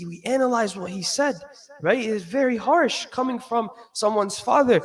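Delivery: usual speaking voice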